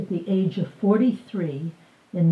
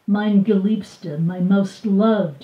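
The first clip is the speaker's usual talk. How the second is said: tender endearment; 4 dB louder, slower than usual. Acted. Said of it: "he would call her".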